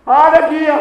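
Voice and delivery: loud, high mock wail; a bereaved child's acted cry for mother. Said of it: "jettee boosee". (akka nama boo'uutti haadha waamuu)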